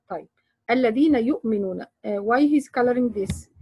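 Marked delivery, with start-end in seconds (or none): 0.7-1.9 quick recited demo of الذين يؤمنون; brisk tajweed recitation of الذين يؤمنون; Quran recitation. Shown as a demonstration. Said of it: "demo reading of verse".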